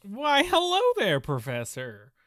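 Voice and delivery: bright, bouncy cartoon voice; cartoon character voice. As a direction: sing it out like a cartoon host. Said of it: "Why are you talking like you're a cartoon character?".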